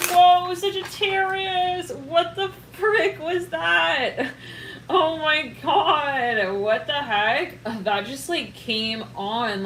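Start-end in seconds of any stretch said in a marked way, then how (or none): 0.1-7.6 high, loud, slow exclamations breaking into laughter and tears; overwhelmed by the cards, crying out in disbelief; stunned emotional outburst. Real, not acted. Reader overwhelmed by a card pull, stunned emotional outcry. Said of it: "I was about to just start bawling".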